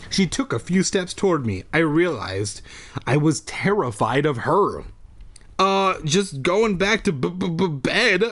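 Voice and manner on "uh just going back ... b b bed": nervous stutter on bed; stammering. Acted. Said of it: "I stammered".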